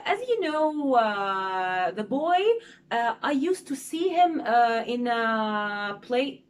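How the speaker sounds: halting, filler-heavy delivery with drawn-out uh's, slowing at the end; thinking out loud. Shown as a demonstration. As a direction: demo a speaker losing their thread mid-sentence. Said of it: "I'm thinking but loudly".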